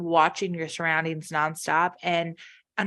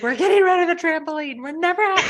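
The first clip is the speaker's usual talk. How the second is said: imitating sobbing friend; 9 semitones higher, 4 dB louder than usual. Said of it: "like, sobbing".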